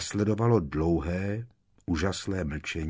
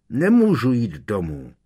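angry tears; 5 semitones higher, 9 dB louder than usual. Acted. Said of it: "bránila se Ginny a v očích ... zlostné slzy".

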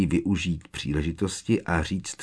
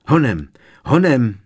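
higher, louder wheezy urging; 6 semitones higher, 8 dB louder than usual. A narrator's reading. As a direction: urge someone on in a lightly put-on wheeze. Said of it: "tichý, sípavý hlas".

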